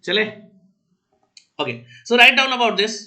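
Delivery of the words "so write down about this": slow, louder classroom dictation; dictating. Real, not acted. Teacher telling the class to write, dictating slowly. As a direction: give it out slowly for note-taking.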